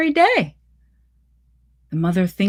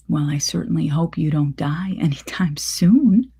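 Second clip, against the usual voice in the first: a hushed, breathy whisper of a line; whispered sardonic remark to her daughter; whispered aside. Acted. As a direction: say it under your breath, dry and wry. Mother speaks to daughter in story.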